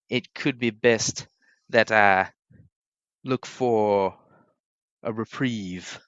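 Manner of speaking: slow, halting formal character voice; lightly voiced weary lord. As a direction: speak haltingly, choosing each word slowly. Game master voices William.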